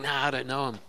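whispered, furtive brush-off; hushed denial. Acted. Peter whispering to the crowd by the fire that he doesn't know Jesus, hushed and furtive. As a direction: breathe it out as if afraid to be overheard.

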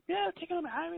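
giddy retold yes at the dealership; excited self-quote. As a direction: blurt it out like a thrilled kid. Retold excited test drive.

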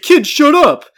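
mock harsh snap; snapped at kid. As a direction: bark it at the crying kid. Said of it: "And he said".

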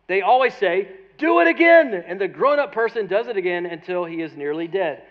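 spirited pulpit reading, building in volume; emphatic quote reading. Acted.

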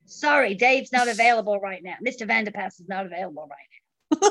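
imitated American secretary; a brisk, badly faked American brush-off; lightly put-on American accent. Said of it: "that's a really bad American accent".

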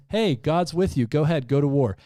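mock-cheerful prophet egging the king on; sarcastic. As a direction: prophet mocks the king telling of war, in sarcasm. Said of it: "the first thing he says is sarcastic".

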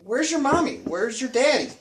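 lightly imitated grown-up addressing a child; talking to small child. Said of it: "So I squat down".

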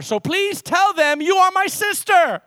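high, slow pulpit reading; declaimed scripture. Acted. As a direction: proclaim each word to the congregation.

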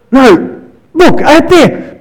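high, slow insistence; insistent Peter. Retold or imitated. Peter insisting to the disciples, high and eager. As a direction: keep pointing him out there, pitch way up.

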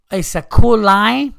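loud, high, drawn-out imitation of an Asian accent. Casino customer answering what the drink is, mock Asian accent. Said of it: "in this Asian voice, she goes".

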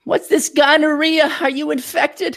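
high, slow mock New York Jewish mom; old New York Jewish lady. Host voicing guest's mother discovering his infection, mock New York Jewish accent. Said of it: "some kind of old Jewish lady from New York".

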